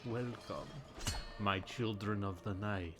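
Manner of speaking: slow, drawn-out Transylvanian vampire accent. Shown as a demonstration. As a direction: Transylvanian count voice, taking his time. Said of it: "a Transylvanian accent would be like".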